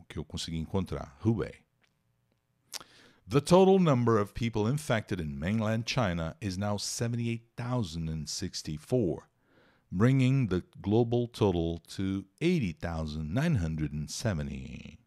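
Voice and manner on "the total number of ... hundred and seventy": reading the English news paragraph aloud. Acted. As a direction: read it like a news item, steady. Reads English news text aloud. (leitura de notícia em inglês)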